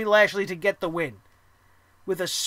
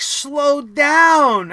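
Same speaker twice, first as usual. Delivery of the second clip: loud call; 3 semitones higher, 7 dB louder than usual. Acted. Telling Rousey to calm down.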